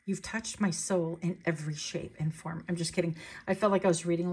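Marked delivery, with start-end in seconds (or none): 0.0-2.6 softly read, lightly swooning line; hint of a breathy romance-novel reader; mock-dreamy paperback romance. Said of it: "like a Harlequin romance novel".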